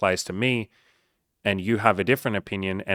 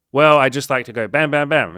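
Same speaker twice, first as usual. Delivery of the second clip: gun lover bragging; 5 semitones higher, 8 dB louder than usual. Pretend. Voicing a gun lover's answer.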